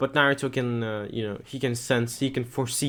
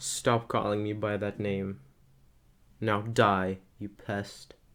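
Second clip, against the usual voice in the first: very low, flat, toneless, emotionless deadpan voice; 3 semitones lower, 4 dB quieter than usual. Narrating a story, Mina answers someone begging her to return to the village: Mina's low emotionless voice. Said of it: "in a very low and um, emotionless voice".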